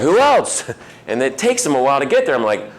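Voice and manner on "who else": high-pitched, playful prod; retold trainer's eager nudge; insistent prompting. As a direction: push for the missing answer, voice leaping up. Trainer prodding new staff for answers.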